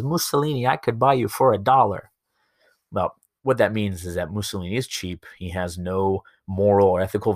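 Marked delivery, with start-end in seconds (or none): 0.0-2.1 put-on high, loud kid calling out; mock little boy's shout; little kid heckling. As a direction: pipe up from the crowd like a cheeky kid. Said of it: "there's a little kid in the middle of the crowd".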